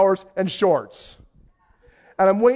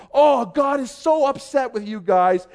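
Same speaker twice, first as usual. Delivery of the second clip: preaching pastor; 5 semitones higher, slower than usual. Retold or imitated. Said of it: "He stopped".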